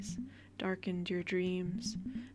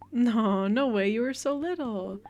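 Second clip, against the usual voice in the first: surprised; 7 dB louder than usual. Acted. Mother stunned by daughter's memory.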